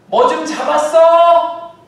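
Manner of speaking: long, drawn-out high call; shouting across water. Acted. Jesus on shore shouting to fishermen, drawn-out call. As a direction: yell it out to the far boat.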